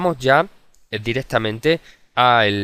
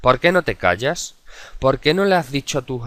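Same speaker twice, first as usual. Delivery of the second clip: example question; 4 semitones higher, 4 dB louder than usual. Shown as a demonstration. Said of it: "Por ejemplo".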